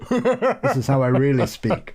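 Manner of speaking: put-on drawn-out upper-class English accent; mock posh English. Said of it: "I put on a rough accent".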